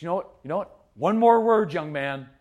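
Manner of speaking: a warning that tips into a yell; escalating threat. Retold or imitated. Dad escalating threat at son.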